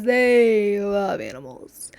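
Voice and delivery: breathy slow whisper of a secret. Acted. Whispering the family secret to viewers. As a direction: lean in and whisper it.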